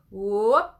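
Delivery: loud rising whoop. Shown as a demonstration. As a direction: whoop from the belly, sliding up. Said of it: "Try it again".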